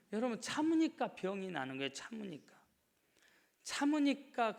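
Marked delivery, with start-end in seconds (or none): 1.9-2.5 the word dropped to a hush; quiet repeat of 참으니까; soft echo. Acted. Echoed key word. 3.6-4.6 참으니까 thrown out loud and high; preacher's rising cry of 참으니까; loud, high repeat. Acted. Echoed key word.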